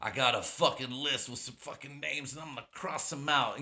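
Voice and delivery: lightly voiced tough-guy movie line; mock the cheesy revenge-movie hero; hammed-up action-film delivery. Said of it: "How cheesy is that shit?".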